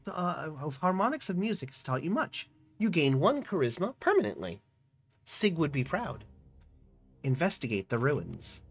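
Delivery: storyteller reading the scene aloud; story narration. A narrator's reading. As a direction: narrate the adventure to the viewers. Reads game narration.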